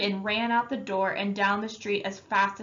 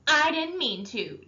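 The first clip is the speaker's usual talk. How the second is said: shouting; 7 semitones higher than usual. Acted. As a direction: throw the words back at him. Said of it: "Derry shouted".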